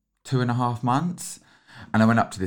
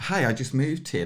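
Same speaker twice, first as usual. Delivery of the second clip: lightly played-up British greeting; gently exaggerated British accent; slightly accentuated British accent; 3 semitones higher than usual. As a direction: open brightly in a touch-stronger British accent. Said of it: "a slightly accentuated Br-, British accent".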